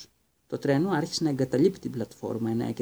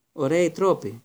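miffed, a touch louder; offended; 4 semitones higher, 5 dB louder than usual. Acted. Sister offended by her brother's rudeness, miffed. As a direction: sniff at his rudeness. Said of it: "είπε πειραγμένη η Τζίνι".

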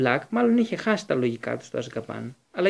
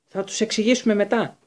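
a raised, higher roar of impatience; 7 semitones higher, 4 dB louder than usual. A narrator's reading. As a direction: bellow it back, refusing to wait. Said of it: "βρυχήθηκε ο Μπλακ". (βρυχηθμός, πιο δυνατά και ψηλά)

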